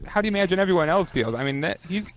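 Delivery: ordinary delivery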